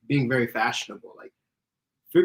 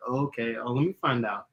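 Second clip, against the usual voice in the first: a hint of laid-back, slower flirting; slower masculine voice.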